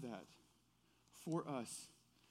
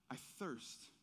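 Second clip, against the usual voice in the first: quiet repeat; 8 dB quieter than usual. Shown as a demonstration.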